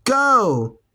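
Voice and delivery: high, sharp shout of go. A narrator's reading. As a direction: order him out at once. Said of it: "shouted Mom".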